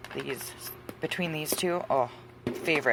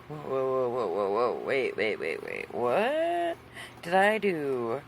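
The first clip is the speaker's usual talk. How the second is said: mock alarm; 3 semitones lower, slower than usual. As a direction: act out bewildered panic at unexpected news. Retelling her shocked reaction to email.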